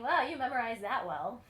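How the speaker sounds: sarcastic teacher quip. Retold or imitated. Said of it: "sarcastic way of saying".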